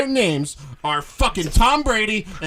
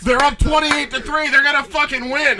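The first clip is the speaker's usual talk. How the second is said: mocking Dan; 5 semitones higher than usual. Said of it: "The last thing Dan says to me".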